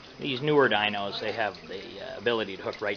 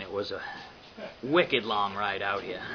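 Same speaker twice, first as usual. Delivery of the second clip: slow, drawn-out New England accent; 4 dB quieter than usual. Shown as a demonstration. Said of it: "I like to use my New England accent".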